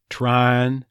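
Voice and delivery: "Trine" as one syllable, trahn; Texas "trying". Shown as a demonstration. Coach models the dropped G, "Trine". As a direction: flatten the I and drop the g, trahn. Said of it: "dropping the G".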